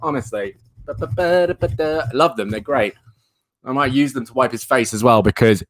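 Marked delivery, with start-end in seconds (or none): 0.9-2.0 playful ba-ba-da noises. Pretend. Playful nonsense filler noises.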